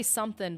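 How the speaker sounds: "something" said as somethin', ending in a plain N; dropped G. Shown as a demonstration. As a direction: drop the final G of "something". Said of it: "only with certain words".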